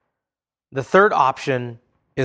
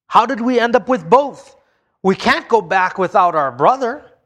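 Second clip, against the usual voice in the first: higher, anxious rush of worried questions; panicked brothers; 5 semitones higher than usual. Acted. The brothers fretting about facing Dad, anxious and higher. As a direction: voice the brothers' rising alarm.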